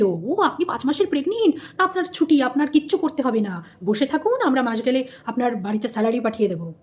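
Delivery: mock the office's kind offer of leave; imitating a polite employer. Employer tells pregnant officer to rest at home, lightly imitated. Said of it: "চাকরির থেকে বলেছিল".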